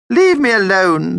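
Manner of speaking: high, loud, irritable snap; snapped. A narrator's reading. Sulking vampire rebuffs Mum's invitation, snapping. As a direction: snap crossly in a high character voice. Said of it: "snapped Vlad".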